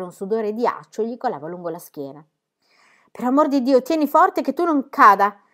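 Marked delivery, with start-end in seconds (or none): 3.1-5.4 high, loud urgent call; encouraging shout. A narrator's reading. Pippi shouting encouragement to climbing Jim, urgent cry. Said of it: "gli gridò Pippi a mo' di incoraggiamento".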